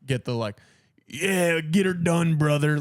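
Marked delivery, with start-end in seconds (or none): 1.1-2.8 loud hyped-up "get her done" bro; mock American bravado; patriotic redneck. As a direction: hype it up like a flag-waving good ol' boy. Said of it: "like, American, like, patriotism".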